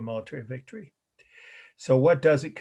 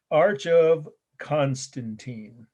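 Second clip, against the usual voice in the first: slow, careful naming; 4 dB louder, much slower than usual. Shown as a demonstration. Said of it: "C O N".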